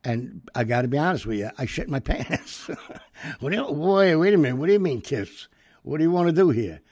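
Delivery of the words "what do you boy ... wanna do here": loud, high, flustered disbelief; shocked outburst. Retold or imitated. Narrator recalling Jackson's kiss request, loud startled disbelief. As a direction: blurt it out, caught completely off guard.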